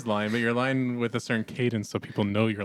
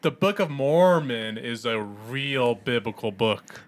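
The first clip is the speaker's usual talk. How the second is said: slow, emphatic sarcastic cadence; slower than usual. Shown as a demonstration. Trying the sarcasm again for coaching friends, sarcastic. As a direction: stretch it out with doubting emphasis. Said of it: "That's good".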